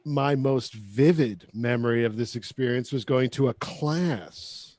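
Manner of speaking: low, softening sultry read; sex voice. Real, not acted. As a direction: let the sentence sink into a sexy murmur. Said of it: "putting on this sex voice".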